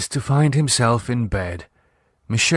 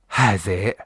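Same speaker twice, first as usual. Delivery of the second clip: stern angry wife; 8 semitones higher than usual. A narrator's reading. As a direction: threaten him, building to a shout. Michelle warns him angrily.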